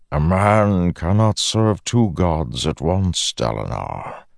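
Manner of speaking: lightly voiced menacing god; a hint of a smooth villain; Odium voice.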